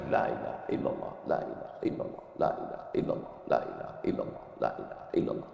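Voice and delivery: soft unvoiced whisper, repeated like prayer beads; whispered dhikr. Shown as a demonstration. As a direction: breathe each la ilaha illallah as a whisper. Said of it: "ambil tasbih".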